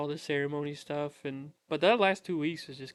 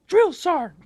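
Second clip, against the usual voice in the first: loud, high mock military shout; recruit calling out; 12 semitones higher, 11 dB louder than usual. Brave recruit raises his hand to the drill sergeant, shouting. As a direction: belt it out like a recruit at attention.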